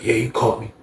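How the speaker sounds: low, soft admission; quiet, low-pitched confession; not talking loud. Acted. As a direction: keep it discreet and under your voice. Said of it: "He ain't talking loud".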